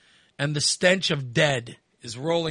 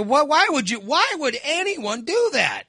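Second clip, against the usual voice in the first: incredulous demand; 9 semitones higher than usual. Retold or imitated. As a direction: demand it in disbelief. Imagined confrontation.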